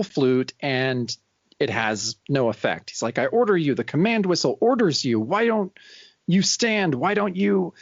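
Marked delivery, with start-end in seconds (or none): 3.2-7.7 higher, mock-villain orders; frustrated commanding. Sarnak to the Beast as the flute fails, acted frustrated command. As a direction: act out a villain losing command.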